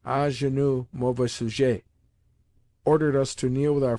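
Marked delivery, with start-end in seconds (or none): 0.0-1.8 a hint of a mock-tragic French tutor, "mauvais sujet" said with the final syllables stressed; lightly hammed-up haughty command; pseudo-tragic tone. Tutor ordering the boys to kneel, mildly mock-tragic. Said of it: "exclaiming in a pseudo-tragic tone".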